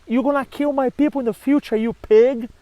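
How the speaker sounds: retold angry refusal, lightly played; accusing. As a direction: fling the insult at the god. Cassandra refuses Apollo.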